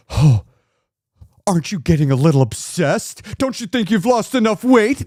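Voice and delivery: lightly voiced worried friend; sceptical friend imitation. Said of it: "act like".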